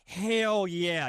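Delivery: Southern drawl slipping out; Southern accent. Acted. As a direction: let the Southern accent dig its way in. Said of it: "it digs its way in".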